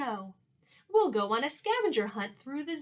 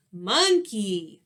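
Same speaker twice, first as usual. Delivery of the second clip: answer shout; 6 dB louder than usual. Acted.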